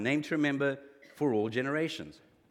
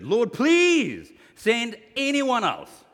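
drawn-out plea; 9 semitones higher, 11 dB louder, much slower than usual. Acted. Preacher dramatizing Moses' last plea.

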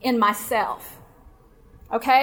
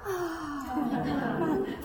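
soft, drawn-out swooning sigh; long, quiet exaggerated "aww"; audience swoon; 10 dB quieter than usual. Shown as a demonstration. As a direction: breathe in and sigh as if touched. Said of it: "This is where y'all go".

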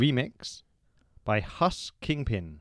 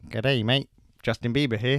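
put-on Australian accent; 4 dB louder than usual. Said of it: "He's now in Australia".

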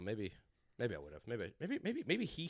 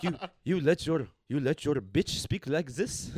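put-on Arab accent; slower than usual. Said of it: "Arab accent".

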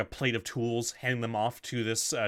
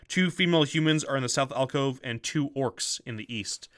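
steady game master narration of a dungeon room; boxed text read-aloud. Acted. Game master reading the torture chamber description to players, measured narration.

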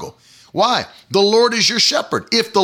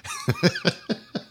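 high laugh burst; 7 dB quieter than usual. Real, not acted. Laughing at own story.

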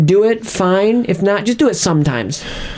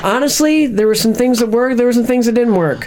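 high, pompous film critic; mock critic voice; 7 semitones higher than usual. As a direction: deliver a vague verdict grandly.

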